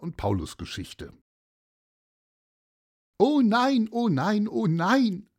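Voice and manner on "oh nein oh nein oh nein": high, loud wail of dismay; lamenting old lady. Acted. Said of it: "jammerte sie". (hohes, lautes Jammern)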